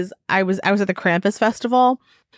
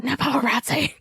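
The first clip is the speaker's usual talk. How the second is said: mock celebrity; 5 semitones higher, 4 dB quieter than usual. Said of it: "I was like".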